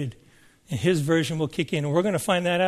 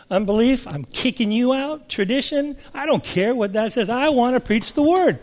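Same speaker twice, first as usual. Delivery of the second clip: higher-pitched, emphatic declaration; acted resolve; 5 semitones higher than usual. Repentant minister banishing unbelief, determined and emphatic. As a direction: imitate a preacher firmly casting things out.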